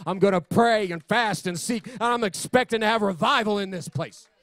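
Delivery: driving preacher cadence, building; punchy declarations, one after another; fervent preaching. Real, not acted. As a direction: preach it with rising conviction.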